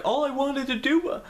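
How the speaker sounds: high, strained, about to cry; mock whiny sob of a kid; imitating crying. Teen replaying crying to his mom, high and whiny. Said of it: "crying like a little bitch".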